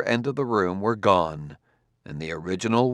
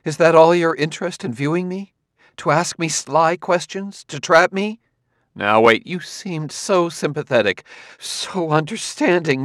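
higher, louder, hurt and furious; furious accusation; 9 semitones higher, 4 dB louder than usual. Acted. Gladia accusing Bailey of trapping her, furious. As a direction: fling the accusation at him.

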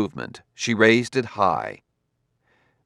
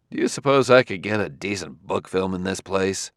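petulant. Acted. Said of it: "almost petulantly".

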